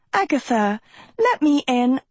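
high, urgent plea to get in; uneasy, high-pitched appeal through the door; anxious plea. Acted. Pleading at door, cat threatening.

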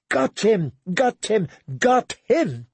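high-pitched, climbing repeated cry; shouting. A narrator's reading. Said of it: "Satin shouted".

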